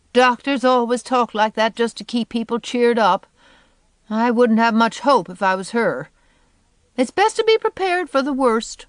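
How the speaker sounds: crotchety woman dismissing all hope; firm prediction of the worst; sour Eliza, pessimistic. A narrator's reading.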